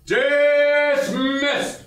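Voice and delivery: sharp high military bark at the troops; barked command. Acted. New captain barking orders at his battery. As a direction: snap the order out like a drill officer.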